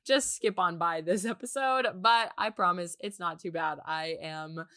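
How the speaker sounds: froggy, nasal sick voice; hoarse and stuffy from a cold; raspy voice. Real, not acted. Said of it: "just mind the froggy voice and the nasally voice".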